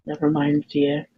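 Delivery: soft, gently dismissive reply; smiling reassurance. Acted. Game master voicing characters who turn to reassure a player, softly smiling. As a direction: brush off the question softly, with a smile. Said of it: "turn to you and smile and say".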